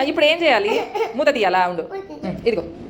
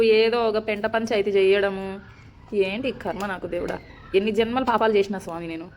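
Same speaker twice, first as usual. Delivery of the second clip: weary lament; slower than usual. Real, not acted. Laments her fate to God.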